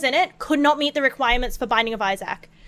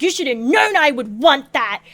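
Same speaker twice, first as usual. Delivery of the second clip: mock indignant yell at partner; retold tantrum, voice lifting on the protest; retold dream yelling; 3 dB louder than usual. Dreamer scolding partner over a missing milkshake, mock yelling. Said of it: "like yelling at him".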